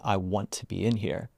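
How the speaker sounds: softly settled "I want to be in here". Shown as a demonstration. Guide shows somebody really landing in, soft and settled. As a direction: land gently and sincerely on the wanting. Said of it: "something that obviously really settles".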